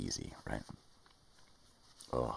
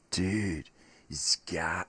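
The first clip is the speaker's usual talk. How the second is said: loud exclaim; 7 semitones higher, 5 dB louder, much slower than usual. Acted. Arguing with himself about God.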